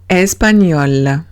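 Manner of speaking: "español" with gn sounded as ñ; French gn as ñ. Shown as a demonstration. Teacher showing how French gn is read, ñ sound. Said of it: "Cada vez que vea G N".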